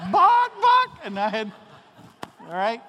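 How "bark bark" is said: high, loud mock dog bark; playful imitated bark. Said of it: "I went".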